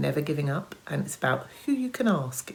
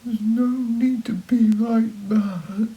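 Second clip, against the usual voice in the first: very quietly; 9 semitones higher, 6 dB louder than usual. Acted. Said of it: "said Mister Wolf, very quietly".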